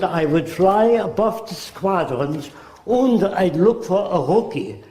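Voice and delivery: put-on slow, lightly German-accented recollection; mild German accent, slow. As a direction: voice the ace calmly in a German accent. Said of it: "That's the way he spoke".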